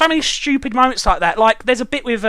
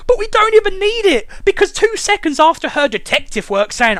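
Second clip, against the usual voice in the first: usual speaking voice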